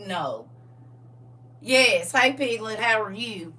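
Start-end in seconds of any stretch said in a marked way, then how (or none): 2.1-3.5 lightly imitated Southern greeting; brother's Southern accent. Sister quoting brother's greeting, light Southern accent. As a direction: toss off a milder country Southern hello. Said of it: "my brother sounds like that".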